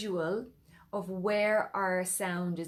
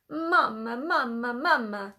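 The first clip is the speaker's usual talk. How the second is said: "mama" called out with real want, louder; emphatic mama; 2 semitones higher, 5 dB louder than usual. Shown as a demonstration. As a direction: call "mama" like a child who needs her mother. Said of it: "like you really want your mother".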